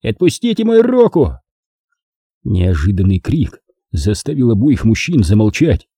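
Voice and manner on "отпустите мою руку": higher, sharp demand; angry demand. Acted. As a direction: order him to let go. Lumsden struggling.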